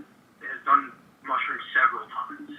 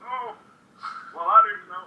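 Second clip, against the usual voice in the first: put-on old man voice; 7 semitones higher, 5 dB louder than usual. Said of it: "old man voice".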